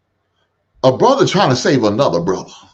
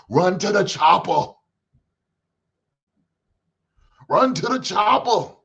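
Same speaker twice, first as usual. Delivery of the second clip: higher, slow movie-hero yell, lightly done; lightly imitating an action hero's urgent order, slow; Arnold Schwarzenegger; 8 semitones higher, slower than usual. Host quoting a movie line, light slow action-hero yell. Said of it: "Arnold Schwarzenegger said back in the day".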